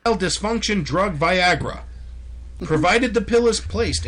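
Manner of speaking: loud sharp voice. Acted. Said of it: "Why are you yelling?".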